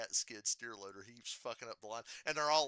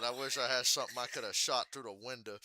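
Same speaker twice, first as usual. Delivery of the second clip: Ward Burton; 4 dB louder than usual. Retold or imitated. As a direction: quote it in a thick country Virginia accent. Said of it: "He said".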